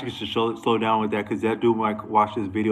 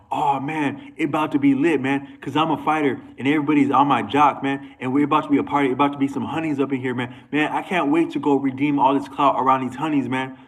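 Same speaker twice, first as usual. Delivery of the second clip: higher-pitched, hyped-up bragging; mock hyped fighter; 4 semitones higher than usual. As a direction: act out a fighter boasting about the party. Mimicking hyped-up party-minded fighters.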